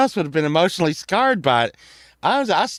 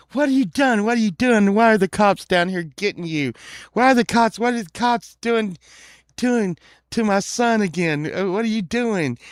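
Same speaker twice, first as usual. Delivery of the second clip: raised, rapid-fire repeated questions; re-enacted upset dad; frantic dad; 3 semitones higher than usual. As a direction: fire off questions like a flustered father. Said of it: "my dad comes down, and he's like".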